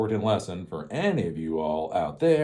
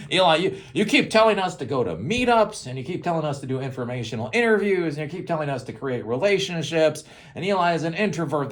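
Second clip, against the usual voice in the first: whiny viewer; 6 semitones higher than usual. Retold or imitated. Mocking viewer's complaint.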